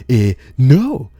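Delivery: a mock stubborn stranger; stubborn refusal. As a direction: intruder shrugging off being told to leave. Man refusing again.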